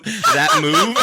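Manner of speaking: high squeal through laughter; laughing squeal. Real, not acted. Laughing at imagined move.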